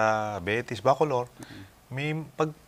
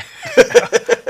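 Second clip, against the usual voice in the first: burst of high laughter; 11 dB louder than usual. Real, not acted. Laughs at the harakiri remark.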